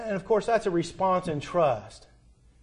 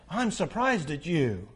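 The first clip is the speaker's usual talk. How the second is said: slow, lightly voiced stern father; a hint of a stern father's disappointment; slow, mildly reproving dad; 4 dB quieter than usual. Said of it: "my dad looks very stern and says".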